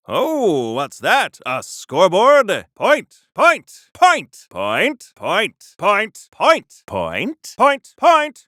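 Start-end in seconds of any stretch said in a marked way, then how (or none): 2.7-6.3 each point yelled higher and louder; crowing triumphantly as the score climbs; gleeful rising cheers, louder each time; excited victory shouts. Acted. 6.3-6.8 excited victory shout. Acted. Scoring points on a scoreboard. 7.6-8.4 excited victory shouts. Acted. Scoring points on a scoreboard.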